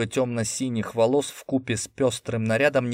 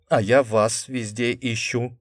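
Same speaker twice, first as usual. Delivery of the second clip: charming smile. A narrator's reading. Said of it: "обаятельно улыбнулся я".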